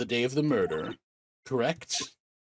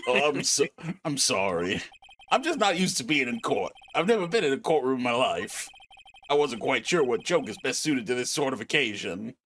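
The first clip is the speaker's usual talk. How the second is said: a lightly deeper Jewish-comedian voice. Acted. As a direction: play a nervous Jewish stand-up clown. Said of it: "you gave him a deep Jewish voice".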